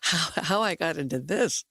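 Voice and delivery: lightly put-on Brooklyn accent, slowed; a hint of a Brooklyn husband.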